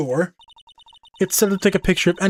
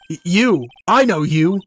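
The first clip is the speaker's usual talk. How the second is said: startled recognition; 4 semitones higher, 5 dB louder, slower than usual. Acted. Girl recognises someone, startled.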